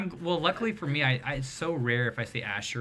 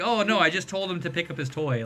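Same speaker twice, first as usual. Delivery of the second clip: higher, innocent explaining voice; imitated sister-in-law; 5 semitones higher, 3 dB louder than usual. Sister-in-law explaining what she told the kid, innocently high. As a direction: lightly mimic her pitched-up reassurance. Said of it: "she's like".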